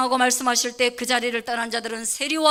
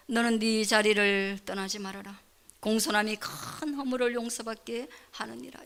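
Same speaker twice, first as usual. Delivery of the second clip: read-along; 4 dB quieter than usual. Shown as a demonstration. Pastor leading the congregation in a shared scripture reading. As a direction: read the verse aloud with the congregation, evenly. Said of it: "같이 읽습니다".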